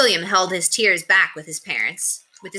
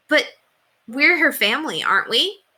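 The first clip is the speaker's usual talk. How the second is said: put-on pleading boy; 9 semitones higher, 4 dB louder than usual. A narrator's reading.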